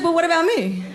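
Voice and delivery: high whiny complaint; whiny self-pity. Retold or imitated. Influencer whining to the audience, high and whiny. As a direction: whine it like a spoiled influencer.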